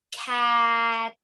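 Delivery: cat said clearly as the finished blend; blended word. Shown as a demonstration. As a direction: land cat cleanly for kids. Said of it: "add that third letter".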